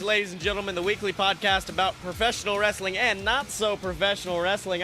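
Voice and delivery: upbeat announcer-style show opener; podcast intro. Acted. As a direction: open the show like a host.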